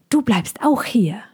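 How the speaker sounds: breathy unvoiced whisper. Piffy whispering to the boy to stay hidden. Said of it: "wisperte er".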